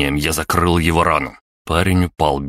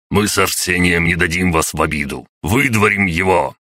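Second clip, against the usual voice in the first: крик; 2 semitones higher than usual. Acted. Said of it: "заорала кукла телепата".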